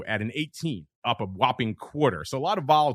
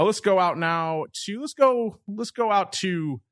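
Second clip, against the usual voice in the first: excited; 8 semitones higher, slower than usual. Real, not acted. Host calling out to guest.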